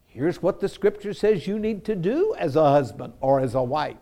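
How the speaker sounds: soft, gentle counsel; gently. Retold or imitated. Pastor counseling a married couple, softly and gently. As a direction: ease the hard news to them softly. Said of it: "I just very gently said".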